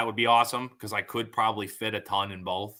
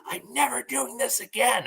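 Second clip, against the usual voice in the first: put-on much higher, little-girl pouty voice; imitating his daughter; 12 semitones higher than usual. Dad mimics four-year-old daughter refusing to go back, pouty high. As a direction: play the sulky four-year-old swearing off. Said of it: "just hearing her be like".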